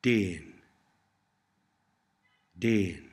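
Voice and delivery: déan with a long, continental e. Shown as a demonstration. Tutor models Cornish for learners, déan with long e. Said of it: "notice the long e sound".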